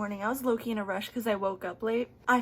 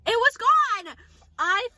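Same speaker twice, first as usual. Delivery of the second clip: high, loud disbelief; real shock, pen gone; shocked exclaim; 12 semitones higher, 9 dB louder, slower than usual. Real, not acted. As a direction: gasp it out in shock. Pen vanished from bed.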